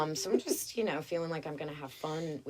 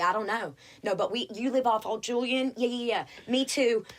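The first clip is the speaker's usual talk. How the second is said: higher, louder gossipy Southern woman; chatty neighbor; 5 semitones higher, 4 dB louder than usual. Retold or imitated. Police operator chatting to caller, excited Southern gossip. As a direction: dish it out like a neighbor on the phone. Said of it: "She's like".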